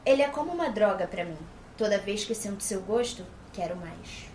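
sultry line. Acted. Dubber voicing Tessa's desire, fading to a hush. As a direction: let quero mais melt away, hushed. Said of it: "Achei quente".

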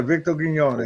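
"Victor Quiñones" said the Spanish way, kee-NYO-nes; Spanish pronunciation. Real, not acted. Correcting the hosts on the name, said the Spanish way. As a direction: give "Quiñones" its Spanish ñ and vowels. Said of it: "When you say it that way".

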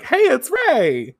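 high, drawn-out excited hello; mock cheery greeting. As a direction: imitate an excited friend calling out a greeting. Usagi greets Rei in retelling.

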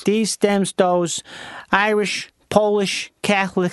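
attempted Chicago accent; put-on Chicagoan list. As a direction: try Chicago vowels one word at a time. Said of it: "do the Chicago accent".

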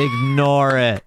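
slow, unbothered brush-off; slow lazy brush-off; offhand dismissal. Retold or imitated. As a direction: wave it away without looking up. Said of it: "he's like".

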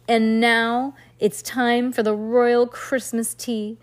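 put-on slow, regal English accent; proper English accent. A narrator's reading. Girl playing queen announces royal tea, proper English accent. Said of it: "Heidi said as in a proper English accent".

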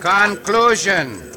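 "Conclusion" drawn out syllable by syllable; slow correction. Acted. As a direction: teach "Conclusion" slowly and distinctly. Corrects Pancho's mispronounced word.

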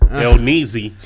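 booming wrestling ring announcer; Spanish announcer voice. Acted. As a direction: call the name like a Spanish-language announcer. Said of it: "In your Spanish announcer voice".

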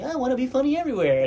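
high, fast tipsy show-off line; playing his drunk self wanting laughs; drunk mode. Drunk friend boasting to buddies, high and fast. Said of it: "in my drunk mode".

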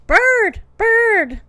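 high, loud proud calls; short, excited high shouts; proudly calling out. A narrator's reading. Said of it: "he proudly called out".

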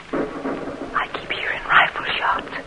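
whispered in fear, slow; frightened whisper. Acted. Mother whispers her fear of rifle shots to her daughter. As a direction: hush it, scared of the gunfire.

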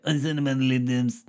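flat robotic monotone; robot voice, even and mechanical. Retold or imitated. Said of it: "I sort of sound like a robot there".

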